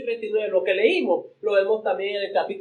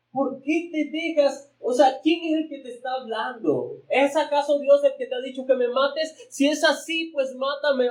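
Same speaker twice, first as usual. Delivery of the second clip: earnest pleading; 6 semitones higher than usual. Retold or imitated. David pleading with Saul.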